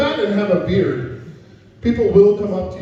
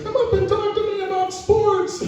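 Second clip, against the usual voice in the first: mock sign voice; 13 semitones higher than usual. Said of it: "a little tiny sign that just says".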